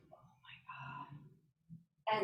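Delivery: low, slow, hushed horror; dread. Retold or imitated. Child summoned to principal's office, hushed dread. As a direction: let it sink down, drawn out and soft. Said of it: "Sheer terror".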